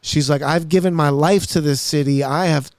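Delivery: mock-weepy lament, pitch lifted a little; imitated crying. Little old lady pouring out her troubles to him, mock tearful. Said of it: "and she's crying".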